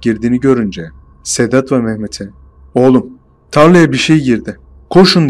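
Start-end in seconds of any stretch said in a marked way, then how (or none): 2.7-5.3 urgent call that builds to a loud yell on Koşun; retold shout. Narrator warning friends about the field, building to a shout. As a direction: warn the friends, rising into a shout. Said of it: "sesli şekilde bağırdım".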